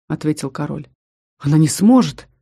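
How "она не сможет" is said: rector exclaims, louder; a firm protest, louder; exclaiming. Acted. Rector protests to the king, louder exclaim. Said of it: "воскликнул ректор".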